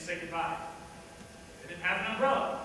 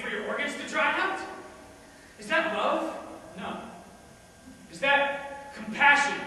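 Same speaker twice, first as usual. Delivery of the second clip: higher, louder rhetorical questions; heated challenge; 4 semitones higher, 3 dB louder than usual. Acted. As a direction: build the questions into indignation. Arguing hotly in defence of organ dealing.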